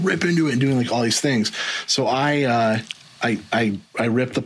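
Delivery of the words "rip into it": high, punchy TV pitchman; infomercial voice. Retold or imitated. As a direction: sell it like a late-night ad. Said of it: "talking like an infomercial".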